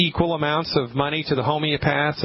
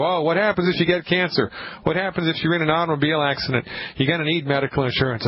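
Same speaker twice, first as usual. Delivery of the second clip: higher, hurried fearmongering sales pitch; mock insurance salesman; 4 semitones higher, faster than usual. Host mocking insurers who scare buyers, hammed-up salesman voice. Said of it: "they frighten you".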